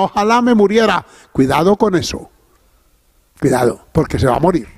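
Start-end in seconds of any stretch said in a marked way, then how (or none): 0.0-1.0 un deseo de muerte dicho con sorna, más agudo; burlón. Retold or imitated. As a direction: imita a alguien que se burla: "Ojalá me muriera". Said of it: "de una manera burlona". (deseo de morir dicho en broma, con burla)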